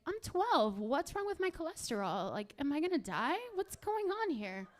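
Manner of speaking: lightly voiced panicky preteen; worried twelve-year-old. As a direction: play a kid alarmed at their own body.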